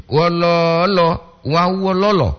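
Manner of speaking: Wololo stretched out slowly, no glottal stop; slow smooth demo. Shown as a demonstration. Teacher repeats Wololo for listeners, slow and smooth. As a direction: draw out Wololo without a catch. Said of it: "Jangan ada glotal di situ".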